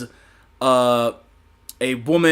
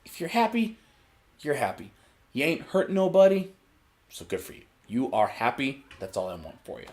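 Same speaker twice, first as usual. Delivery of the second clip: encouraging; 8 dB quieter than usual. Retold or imitated. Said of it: "and I say".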